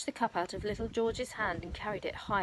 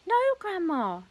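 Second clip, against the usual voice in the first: put-on pleading boy; 11 semitones higher, 5 dB louder than usual. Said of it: "George said".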